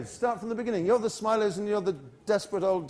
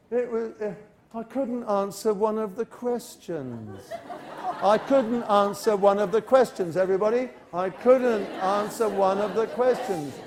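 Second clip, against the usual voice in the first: whining student; 2 semitones higher than usual. Shown as a demonstration. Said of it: "So, so we say".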